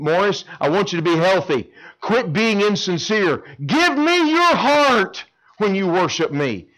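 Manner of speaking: lightly voiced earnest God. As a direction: plead for a sincere heart.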